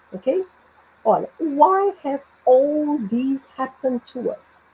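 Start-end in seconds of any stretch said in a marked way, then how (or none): 1.4-4.6 slow question, rising at the end of "to us"; spaced-out words lifting into a question. Shown as a demonstration. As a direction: ask "Why has all this happened to us" slowly. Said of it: "É uma pergunta".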